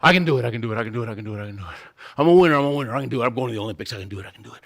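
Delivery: low, rapid chant fading under the breath; self pep talk. Acted. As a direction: psych yourself up, repeating it like a mantra. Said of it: "give myself a pep talk".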